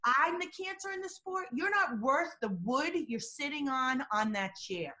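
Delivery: imitating a combative press-conference rebuttal; mock righteous anger; indignant retort. Expert imitating Lance Armstrong attacking a reporter, indignant. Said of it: "literally raising his tone and pitch".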